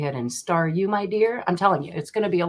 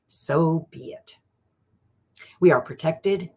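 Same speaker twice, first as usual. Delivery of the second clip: prayer invocation. Acted. Reader calling in her spirit guide with a solemn prayer. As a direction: intone it like a blessing.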